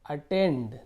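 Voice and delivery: "अटेंड" with a hard T; pronunciation demo. Shown as a demonstration. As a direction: say "अटेंड" carefully, keeping the T hard. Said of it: "टी का टी ही रहेगा".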